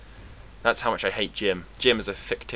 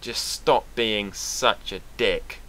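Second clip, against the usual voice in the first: scornful putdown; slower than usual. Retold or imitated. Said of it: "turn to Jim and go".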